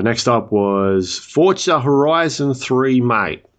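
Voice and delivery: slow, hammed-up bad Australian accent. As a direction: drawl it out like a terrible Aussie imitation, mate. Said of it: "That's my terrible Australian accent".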